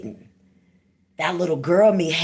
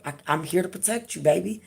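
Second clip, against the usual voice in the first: put-on reassuring her inner child. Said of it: "I had to tell her".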